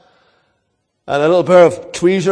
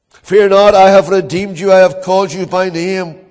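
a bold pulpit proclamation of scripture; ringing proclamation; 2 semitones higher, 5 dB louder than usual. Acted. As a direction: call out the promise to the whole church. Preacher proclaims God's promise aloud.

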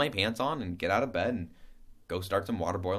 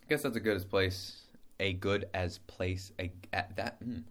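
tripping over words; 3 dB quieter than usual. Real, not acted. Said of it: "like I just did there when I was trying to say".

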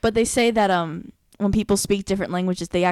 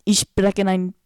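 slow, careful German accent; attempted German accent; slower than usual. Shown as a demonstration. Demonstrating speaking German like a local, attempted German accent. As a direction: try to sound like a native German speaker. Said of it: "my, my attempt".

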